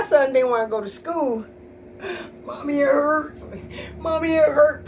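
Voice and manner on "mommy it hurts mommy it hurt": put-on whiny sick child. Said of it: "Pretending he vomiting".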